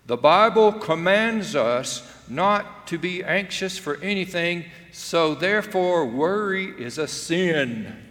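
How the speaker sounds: preacher condemning worry, loud and stern. Retold or imitated. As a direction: hammer it like a hellfire preacher. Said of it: "the preacher said something like this".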